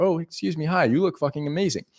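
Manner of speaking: gentle, unforced compliment; easy calm delivery, nothing pushy; calm, no aggression. Shown as a demonstration. Coach showing how he compliments a girl, calm voice. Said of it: "there's no aggression in my voice".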